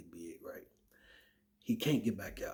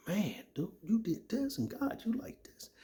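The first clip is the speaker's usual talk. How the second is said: awed whisper; 11 semitones higher than usual. Retold or imitated. Retelling awe reading Bible.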